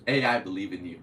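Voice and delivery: loud, laughing mock slogan. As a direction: pitch it like an ad through a laugh.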